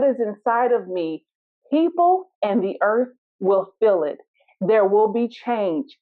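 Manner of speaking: a lightly voiced, calmly assured elephant. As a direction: answer with unhurried calm. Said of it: "the elephant calmly looks at the puppy and says".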